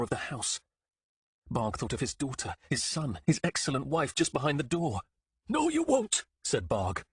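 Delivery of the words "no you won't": defiant shout. Acted. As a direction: throw it at the monster's face. Defying the monster.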